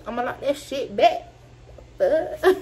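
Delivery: laughing through the line. Retold or imitated. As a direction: retell it while cracking up. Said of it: "I ain't say the fuck like that".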